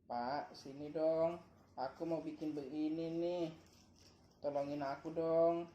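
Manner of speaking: slow, drawn-out polite request to dad; asking nicely. Shown as a demonstration. Father shows his child how to ask for help, asking nicely. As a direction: model a sweet, patient plea for help. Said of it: "ngomong baik-baik".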